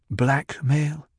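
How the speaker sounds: dry, sceptical question. A narrator's reading. Jessica questioning her son's plan, dry and sceptical. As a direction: ask it drily, unimpressed. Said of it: "spoke in a dry tone".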